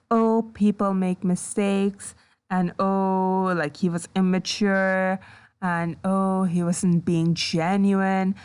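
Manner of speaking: lightly mimicking someone talking calmly, drawling each "oh"; mock-calm retelling. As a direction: recap it with mocking nonchalance. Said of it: "just calmly talking about".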